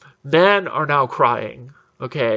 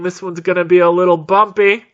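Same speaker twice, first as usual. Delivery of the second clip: a hint of a pilot's announcement, louder and raised; lightly voiced pilot; 4 semitones higher, 5 dB louder than usual. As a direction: lightly mimic a pilot warning the cabin. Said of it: "The pilot's like".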